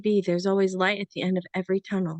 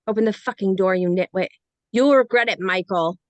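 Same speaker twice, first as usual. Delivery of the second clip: angry; 4 dB louder than usual. Acted. Deborah shut out, furious.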